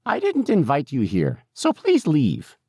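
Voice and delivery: put-on high, slow, insistent old lady; objecting old woman. A narrator's reading. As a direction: insist the stranger leave, stretching the last words. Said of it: "she got louder and louder".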